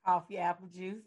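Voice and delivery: tipsy and giggling; laughing through tipsy words. Real, not acted. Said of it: "my host is tipsy".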